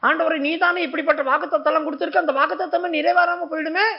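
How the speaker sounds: model prayer. Shown as a demonstration. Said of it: "ஜெபம் பண்ணக்கூடாது".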